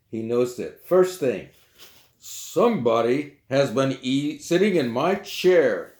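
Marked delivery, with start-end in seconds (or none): 2.2-5.9 slow, deliberate papa bear with a hint of size; drawn-out, heavy papa bear; great big voice. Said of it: "said the great big bear in his great big voice".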